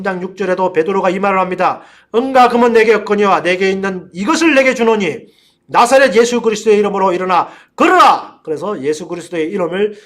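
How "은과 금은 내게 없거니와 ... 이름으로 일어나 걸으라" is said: ringing, loud scripture proclamation; preacher's raised, higher voice; declaimed command. Acted. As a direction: proclaim it like an apostle ordering a healing. Declaims Peter's healing command.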